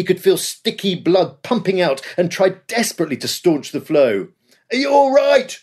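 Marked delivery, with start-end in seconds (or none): 4.7-5.6 high, loud question on the run; shouted question. A narrator's reading. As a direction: call out over the battle noise. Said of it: "shouted Otway".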